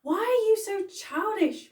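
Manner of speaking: high, loud exasperated shriek; scream. A narrator's reading. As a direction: scream it at her mother. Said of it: "Molly's mum screamed".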